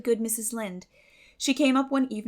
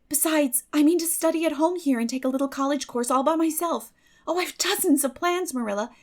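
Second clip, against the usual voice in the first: lightly voiced determined girl, a bit higher; earnest, dreamy girl resolving to stay; Anne's voice; 5 semitones higher, 7 dB louder than usual. A narrator's reading. Anne's long hopeful speech.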